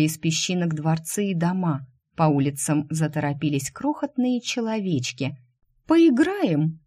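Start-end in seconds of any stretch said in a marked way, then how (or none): 5.9-6.8 put-on high, loud child's call. Child beckons Shu into the game, high eager call. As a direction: sing it out like an eager little kid. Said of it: "снова раздался детский голос".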